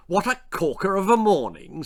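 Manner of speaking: put-on bright eager boy at the window; enthusiastic. A narrator's reading. Algy looks out at the sunshine, enthusiastic. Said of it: "said Algy enthusiastically".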